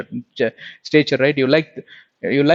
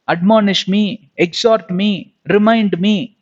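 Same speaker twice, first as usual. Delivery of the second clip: preaching declaration; 3 semitones higher, slower than usual. Acted. Preacher declares faith, building.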